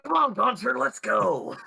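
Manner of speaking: high, loud and keen; eager urging. Acted. Character shoving Gunter toward adventure, high eager call. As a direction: push him along with gusto. Player's character pushes companion along.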